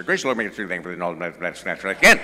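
rattled off fast like an auctioneer; auctioneer-style grace. Retold or imitated. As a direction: race through it like a Derby announcer. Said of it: "my dad said grace kind of like an auctioneer or a, um, Kentucky Derby announcer".

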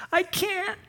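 high and slow, breaking on stop; mild sobbing plea. Acted. Kathy admitting she can't stop drinking, understated sob. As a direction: drag it out like a muted sob. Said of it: "She's now weeping".

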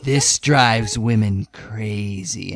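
low, slow, deep-voiced big guy; Bull impression. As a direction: drop low and drag it out like Bull. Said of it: "Please deliver it like Bull did".

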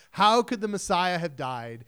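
puzzled question from the disciples, the word died dropping; doubting disciples. Retold or imitated. Early disciples asking in disbelief how the Messiah died. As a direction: ask it as a bewildered follower. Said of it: "This is how the early disciples felt".

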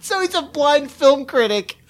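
high-pitched, laughing delivery; barely holding back laughter at the absurdity; cracking up. Real, not acted. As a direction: squeeze it out through laughter.

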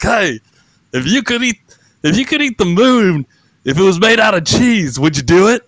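high, loud old announcer impression; high warbling Will Ferrell announcer voice; Harry Carey. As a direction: ask it like a rambling ballpark announcer. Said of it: "Harry Carey talk like this".

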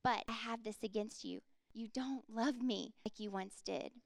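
a touch of tenderness as Jesus rebukes; tender. Acted. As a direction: gently lay down the hard truth. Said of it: "And Jesus so tenderly saying".

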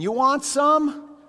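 bright, high, slow offer of food; loud and carefree, up over the storm; cheery offer. Retold or imitated. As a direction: hold it out like a carefree uncle. Uncles offering salami in storm.

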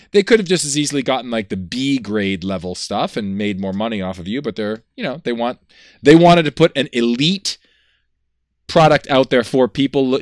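loud hard-sell pitch. Acted. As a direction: pump it like an infomercial. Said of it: "used car salesman with our promo".

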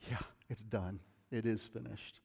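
soft and settled, job complete; relaxed, quiet done-voice. Retold or imitated. Angels at rest saying it's done, softly. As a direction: ease back, it's all done.

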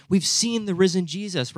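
excited news. Acted. Disciples bringing Thomas news of the risen Jesus, excited. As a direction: share it like thrilling news.

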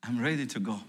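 a hint of a frail dying woman letting go; dying mother-in-law. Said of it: "my mother-in-law said with a few words".

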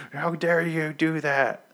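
high, slow mock-indignant voice; Maggie scolding. Retelling Maggie scolding Rick, in a high, slow indignant voice. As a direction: play the outraged woman, drawn out and lifted. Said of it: "And she's like".

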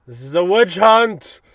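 lightly hammed-up cry of outrage; mild mock protest. A milder Zoidberg protesting to Hermes. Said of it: "just the way he's like".

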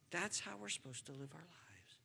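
softly whispered repeat of the line. Shown as a demonstration. Preacher to congregation, whispered echo. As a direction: breathe the words, no voice. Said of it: "Dear friends, I think that's how".

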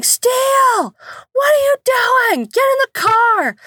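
high mock yell across the yard; mother yelling at toddler from the car; yelling out car window. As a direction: call out to a kid far off, high and sharp. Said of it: "I yell from the car window".

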